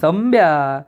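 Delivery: gentle, affectionate calling of the name; lovingly. Retold or imitated. Nami sweetly calling Sambya, a hint of fondness. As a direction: coax him kindly. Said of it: "नमी प्रेमाने म्हणते".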